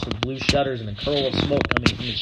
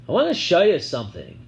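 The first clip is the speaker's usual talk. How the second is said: put-on coaxing girl voice; 6 semitones higher, 5 dB louder than usual. A narrator's reading. Sissy coaxing.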